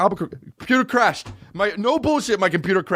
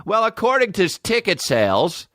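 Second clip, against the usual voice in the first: lightly voiced prim news reporter, higher; mocking the reporter; 4 semitones higher than usual. Comedian mimicking the TV reporter, mock prim. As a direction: mimic her smug on-air tone. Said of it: "They're acting like they did".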